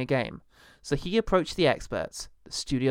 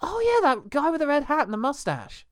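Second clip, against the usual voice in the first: imitating Miyamoto; 11 semitones higher than usual. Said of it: "one day he's like".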